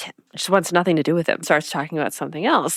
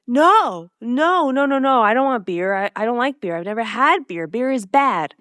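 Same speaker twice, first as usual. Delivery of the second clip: flustered protest; 5 semitones higher than usual. Retold or imitated. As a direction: imitate a flustered kid refusing. Acting Dean's flustered refusal of beer.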